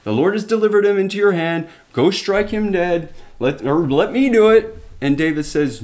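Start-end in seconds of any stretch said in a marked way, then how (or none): 0.0-4.8 excited, higher hushed urging; eager urging. Retold or imitated. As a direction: egg him on to strike. Friend urging to kill Saul.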